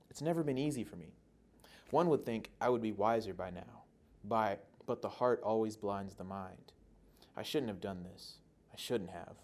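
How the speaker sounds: understated dramatic read-through, with pauses between phrases; restrained monologue reading; lightly voiced vampire. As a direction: read it as a conflicted vampire lover, lightly acted. Reads vampire monologue aloud.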